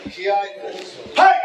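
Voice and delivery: loud punchy yell; ki shout. Shown as a demonstration. Instructor urging the class to shout ki. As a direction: bark it out from the gut. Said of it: "I haven't heard of Ki all day".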